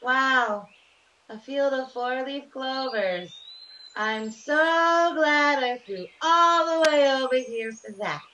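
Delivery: sarcastic singsong. Acted. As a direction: sing it mockingly. Sarcastic reply to clovers.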